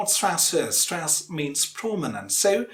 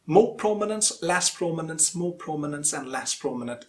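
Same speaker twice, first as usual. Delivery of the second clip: "more prominence" lifted, "less prominence" let down, stepping downward; rhythmic strong-weak chant of "more" and "less"; alternating prominence. Shown as a demonstration. Teacher shows how English rhythm goes on, alternating. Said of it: "It goes on like that".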